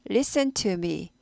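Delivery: slow, deliberate "listen to me" with "to" said clearly; careful "listen to". Shown as a demonstration. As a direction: spell out "listen to me" word by word, slowly. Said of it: "listen me 아니고".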